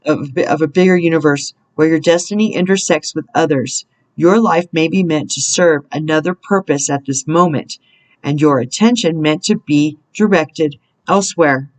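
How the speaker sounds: measured, deliberate reading with spaced phrases; read-aloud spiritual message. Real, not acted. Reader guiding listeners through a roadblock, measured inspirational reading. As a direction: read it out as guidance, pausing between thoughts.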